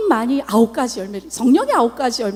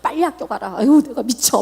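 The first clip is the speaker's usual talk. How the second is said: exasperated mother; 3 semitones lower, 3 dB louder than usual. Retold or imitated. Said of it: "속에서 막 부글부글 끓어오르죠".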